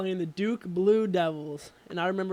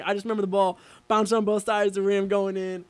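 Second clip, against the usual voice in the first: normal talking voice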